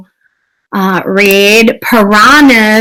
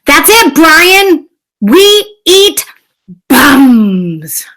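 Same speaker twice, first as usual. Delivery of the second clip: higher mock-exasperated piranha; lightly voiced annoyed piranha snapping back; a hint of hammed-up fish outrage; fed-up piranhas; 6 semitones higher, 5 dB louder, much slower than usual. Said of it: "They're like".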